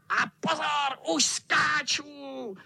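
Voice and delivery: high, slow shouted cat warning; cat yelling. A narrator's reading. Cat cries out as he jumps. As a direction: cry out as you leap. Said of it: "vykřikl kocour".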